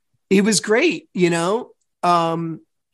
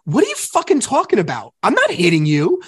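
higher, exasperated mock outburst; indignant retort; 4 semitones higher, 3 dB louder than usual. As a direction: re-enact an indignant denial. Re-enacting his angry argument.

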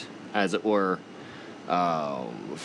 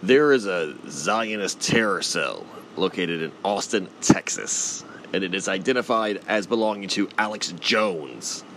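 lightly done croaky frog-like ranter voice; a hint of a conspiracy radio host ranting; Alex Jones impression. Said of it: "that's my Alex Jones impression".

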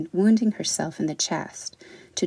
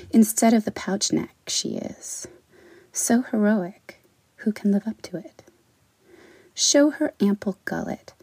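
measured poem recital with long pauses between lines; poetry reading. Acted. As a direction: read it like a poem for a small audience. Reads her own poem aloud.

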